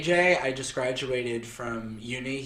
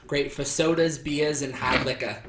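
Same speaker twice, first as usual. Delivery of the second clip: lightly put-on Boston accent. Reading a pub glass gift slogan, light Boston accent. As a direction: read it out with Boston dropped r's. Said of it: "it was written in that accent".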